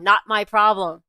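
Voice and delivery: loud, flat refusal; fierce. Retold or imitated. Husband stands up to the tall boss, loud and fierce. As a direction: bark the refusal back at him. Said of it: "never seen Safdie that angry and that fierce".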